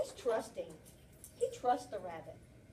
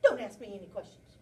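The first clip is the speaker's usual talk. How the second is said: louder, protesting rabbit; defensive rabbit; 9 dB louder than usual. Acted. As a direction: deny it too hard, guilty. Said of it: "how he says it".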